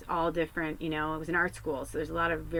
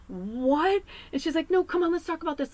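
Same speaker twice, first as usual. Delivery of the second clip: much higher, louder, fast alarmed teacher; shocked teacher; 11 semitones higher, 5 dB louder than usual. Retold or imitated. Teacher shocked her student is quitting school.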